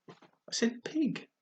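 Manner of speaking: slow hushed answer. Acted. Alice answering the cat, slow and hushed.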